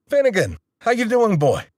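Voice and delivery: dad hollering down the line; dad on the extension phone, a mild mock yell. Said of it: "Dad yelled through the other phone".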